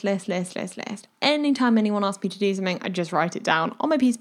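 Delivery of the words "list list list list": whispered repetition. Shown as a demonstration. Repeating list, trails to whisper.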